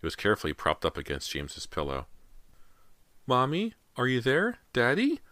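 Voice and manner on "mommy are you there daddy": put-on high-pitched small child calling; young boy's voice. A narrator's reading. Missing boy calls to his parents, high child voice. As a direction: call as a little boy, rising questions. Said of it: "Callie could hear James's voice so clearly".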